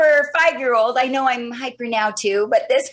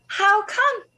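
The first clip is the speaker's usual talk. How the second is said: higher, sweet and gentle question, imitating mom; sweetest voice; 7 semitones higher than usual. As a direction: ask it sweetly so nobody gets defensive. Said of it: "the sweetest voice tone".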